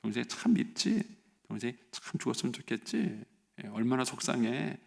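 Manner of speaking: gently voiced sympathy for a child; soothe, taking the feeling in; empathetic parent. Parent accepting an upset child's feelings, sympathetic. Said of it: "이렇게 말하면서 그 얘기를 받아주는".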